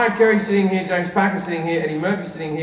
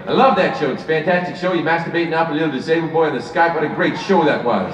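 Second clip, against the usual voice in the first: a lightly voiced, faster celebrity gush; Eddie Murphy impression; 3 semitones lower than usual. Comedian retells Eddie Murphy praising his show, light impression. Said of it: "He's good impersonator".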